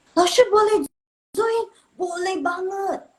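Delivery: playful chat read. Retold or imitated. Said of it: "reading chat message playfully".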